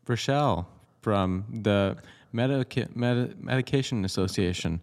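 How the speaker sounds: slow, halting imitation of a robocaller; fake human robot voice. Robocall greeting to a victim, fake human robot voice. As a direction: imitate a chirpy automated caller with odd pauses. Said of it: "fake human voice slash robot".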